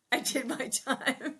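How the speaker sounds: slow, drawn-out mock Ralph; fond imitation of Ralph. Sister fondly mimicking her late brother, slow and drawn out. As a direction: stretch each word out like Ralph did. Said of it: "I love when he would say that".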